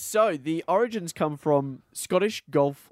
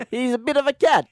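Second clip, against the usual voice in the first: loud, high plummy Brit; posh English voice; 11 semitones higher, 7 dB louder than usual. Acted. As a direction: say it like a toff. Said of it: "Do the voice".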